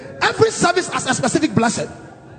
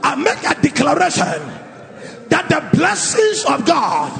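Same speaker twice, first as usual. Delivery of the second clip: declaration prayer. Acted. Leads congregation in declaration prayer.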